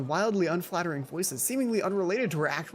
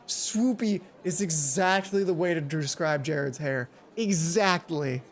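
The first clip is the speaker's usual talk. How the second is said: gushing Mai; 2 semitones lower, slower than usual. Acted. Mai drawn-out agreement.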